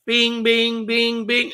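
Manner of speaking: sing-song "bing" imitating alert pings; pinging alerts. Retelling the incoming alerts, imitated pinging. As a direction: mimic a string of alerts going off.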